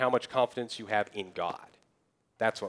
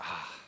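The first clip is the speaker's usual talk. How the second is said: reluctant sigh; 6 semitones lower, 11 dB quieter than usual. Acted. Moses acted sighing before objecting.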